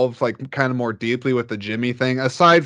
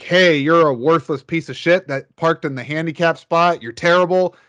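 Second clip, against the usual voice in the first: hammed-up insult, higher and louder; mock telling off; 5 semitones higher, 4 dB louder than usual. Son acts out yelling at the driver, higher and louder. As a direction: throw a pretend rant at the bad parker. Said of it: "speak your piece and be like".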